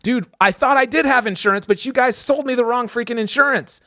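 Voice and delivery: retelling rising anger at T-Mobile. Retold or imitated. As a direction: vent it at the clerk. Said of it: "now I'm even getting more mad".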